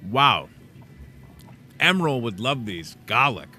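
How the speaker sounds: talking while chewing; mouth full. Real, not acted. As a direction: speak through a mouthful. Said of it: "talking with my mouth full".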